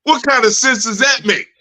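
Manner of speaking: mock whining student.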